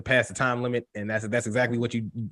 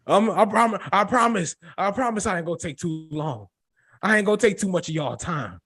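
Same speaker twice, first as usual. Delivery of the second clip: lightly mocked preacher, higher pitch; Pastor Devin; 5 semitones higher than usual. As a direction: tease with a long-winded pastor's promises. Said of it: "I'm gonna start calling you Pastor Devin".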